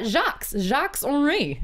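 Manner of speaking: Jacques Henri in a light French accent; a quick, half-hearted French accent on Jacques Henri. Shown as a demonstration. Host reading a fan's name in a half-hearted French accent. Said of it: "if I say it with my French accent".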